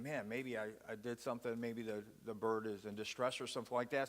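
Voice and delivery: quiet mumbled thought to himself; musing under his breath; hushed worried inner voice. Retold or imitated. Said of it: "this guy's, like, thinking".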